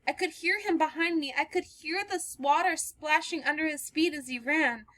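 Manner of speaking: remember the chase in fear; frightened recollection. Acted. Girl telling the stranger how she was chased, frightened. Girl tells her story.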